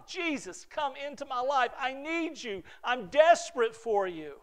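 calling out to Jesus in desperation, imitating a new believer; desperate calling out. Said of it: "it has come with people shouting".

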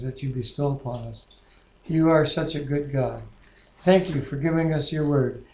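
earnest spoken prayer, steady and reverent; closing prayer. Real, not acted. Leader closes the group's study with a reverent prayer. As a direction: pray sincerely to close the study.

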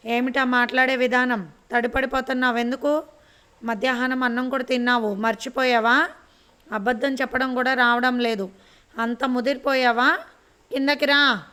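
furious scolding, rising to a yell; angry grandmother's yell, heard in full; loud angry scolding. Acted. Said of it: "పెద్దగా అరిచింది దుర్గమ్మ".

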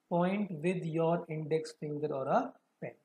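fast, then drawn out slow; dragged out slow reading pace; slowed right down. Shown as a demonstration. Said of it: "मैं slow भी कर रहा हूँ".

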